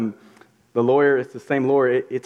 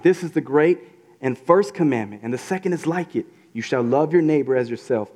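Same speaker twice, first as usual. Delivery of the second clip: raised, ringing bible reading; scripture reading. Acted. Preacher reading the passage aloud to the church. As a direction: read it out like scripture to the room.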